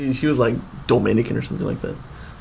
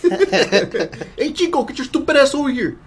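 calling a dog; 14 semitones higher, slower than usual. Acted. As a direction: yell for Chico across the yard. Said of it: "You forgot to say "hey".

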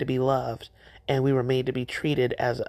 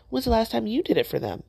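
higher, pressing rhetorical jab; pointed challenge; 6 semitones higher, faster than usual. Real, not acted. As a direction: call them out sharply. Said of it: "yes, I said it with love".

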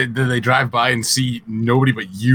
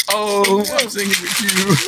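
mock excitement; 7 semitones higher than usual. Mock excited about a volunteer.

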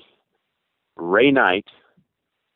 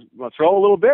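high, louder imitation of the coach; coach's voice; 11 semitones higher, 6 dB louder, faster than usual. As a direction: voice the old coach, pitched up. Coach's voice in retold scene.

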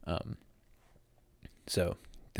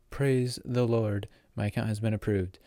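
retold relief; 3 semitones higher than usual. Vlogger retells getting approved after days of waiting, mock-solemn relief.

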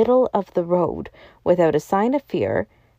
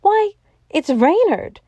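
high-pitched cry of recognition; astonished cry; 12 semitones higher, 3 dB louder than usual. A narrator's reading. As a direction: cry out in sudden amazement. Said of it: "with a catch in his voice, cried out".

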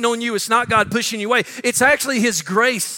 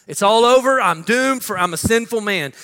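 despairing cry; 3 semitones higher, 4 dB louder than usual. Acted. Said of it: "Then he says this".

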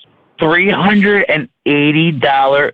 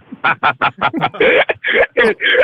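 big laugh. Real, not acted. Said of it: "This guy has the best laugh".

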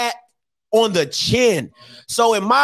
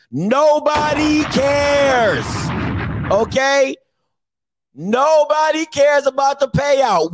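slow emphatic scolding; 4 semitones higher, slower than usual. Real, not acted. Host scolding a caller on air, slow and emphatic. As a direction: drag out nobody cares, then shout it.

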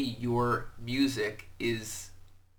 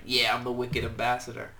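light mock Boston accent on the quote; tossed-off Boston impression, barely put on. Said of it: "I give it a Boston accent".

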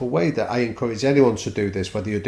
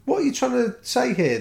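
mock outburst. Coach retelling how he tells gyms off, mock shout. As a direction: blast the gym quote off the wall. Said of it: "And I say".

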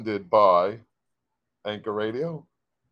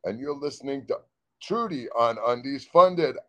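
radio announcer. Acted. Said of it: "another take of radio ID".

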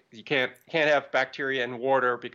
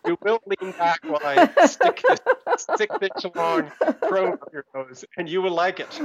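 menacing foreign interrogator, higher, louder; cool foreign spy menace; 7 semitones higher, 6 dB louder than usual. Pretend. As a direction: threaten like a Bond villain. Joins the villain bit.

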